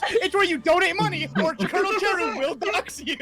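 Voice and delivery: game show host. Pretend. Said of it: "let me get my Bob Barker".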